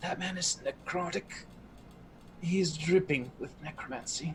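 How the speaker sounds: very quiet whisper. Playing a character who warns a companion in secret: whispering very quietly. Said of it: "I whisper very quietly in your ear".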